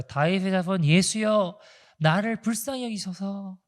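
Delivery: slow, pleading cry of a blind beggar; drawn-out plea for mercy, not yet pushed; blind man crying out. Retold or imitated. Blind man begging Jesus for mercy, slow pleading call. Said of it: "막 소리소리를 질러요".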